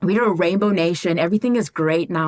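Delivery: high, loud, sing-song mock of a breezy white girl; imitating the girl's chirpy rainbow-nation line; mocking her. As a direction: parody her cheerful denial. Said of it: "And she's like".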